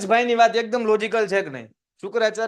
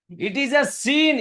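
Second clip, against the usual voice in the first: very slow, higher firm read; slow, raised moral refusal; slow solemn reading; 6 semitones higher, 3 dB louder, much slower than usual. Shown as a demonstration. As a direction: say it slowly and firmly. Reads Kach's refusal aloud.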